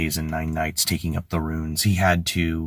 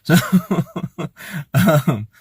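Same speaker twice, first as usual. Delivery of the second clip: high, hissing reptile squeal; lizard impression; 10 semitones higher, 5 dB louder than usual. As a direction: play a little lizard brain creature. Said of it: "that was my lizard impression".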